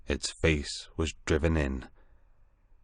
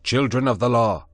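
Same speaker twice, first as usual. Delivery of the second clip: louder, higher commanding call; raised voice; 6 semitones higher, 6 dB louder than usual. A narrator's reading. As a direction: proclaim it to the crowd. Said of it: "lifted up my voice".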